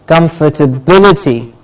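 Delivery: "Comfortability" as kum-fer-tuh-BIL-i-ty; stress before -ity. Shown as a demonstration. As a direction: model "Comfortability", weight on "bil". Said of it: "the syllable before ity is stressed".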